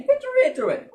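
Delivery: high, breathless urging then gasp; excited hushed urging. Acted. Scientist urging a colleague to listen, with a gasp. Acted lab scene.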